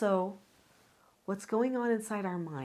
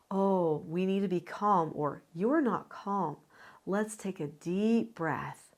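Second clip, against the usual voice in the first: soothing parent. Pretend. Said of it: "you can say".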